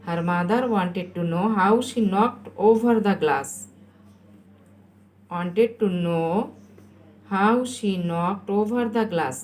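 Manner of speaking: very slow, word-by-word read; slow dictation. Shown as a demonstration. Teacher repeats the answer for pupils writing, very slowly. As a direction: dictate it for someone copying, slowly.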